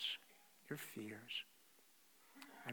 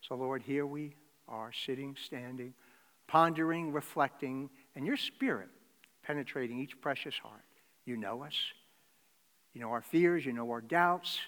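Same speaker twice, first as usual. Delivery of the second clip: prayer; 4 dB louder than usual. Acted. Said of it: "Join me in prayer".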